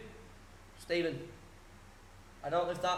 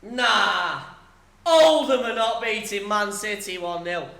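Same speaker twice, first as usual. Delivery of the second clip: shocked disbelief; 4 semitones higher, 10 dB louder, slower than usual. Real, not acted. Shock at Oldham beating Man City.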